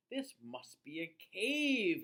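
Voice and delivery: slow, content little bear voice; sighing happily. A narrator's reading. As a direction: savour it with a happy sigh. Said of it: "sighing happily".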